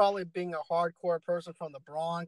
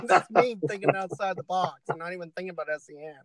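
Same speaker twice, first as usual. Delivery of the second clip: laughing through the words; chuckling while talking. Real, not acted. Laughs through his line.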